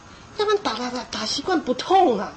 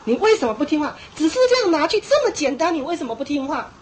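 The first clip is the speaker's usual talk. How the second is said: 责骂孩子; 3 semitones higher than usual. Retold or imitated. 家长示范责骂不听话的孩子.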